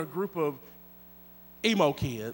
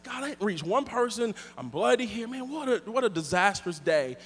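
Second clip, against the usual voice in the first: soft mournful prayer; 5 dB quieter than usual. Retold or imitated. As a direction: pray it quietly, defeated. Retold weeping prayer.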